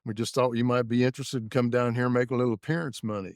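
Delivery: folksy hillbilly prank-call voice; hillbilly accent. Retold or imitated. Prank-calling Billy as a track promoter, hillbilly accent. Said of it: "I put on my best hillbilly accent".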